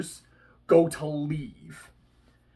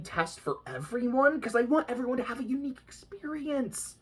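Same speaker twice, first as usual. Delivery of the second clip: put-on higher, eager little-girl voice; childish Bonesaw; 5 semitones higher than usual. Vlogger voicing the child Bonesaw answering Jack, eager. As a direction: play the giddy child villain.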